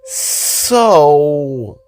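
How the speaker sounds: Jida's voice. Acted. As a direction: lift the voice up for an eager young girl.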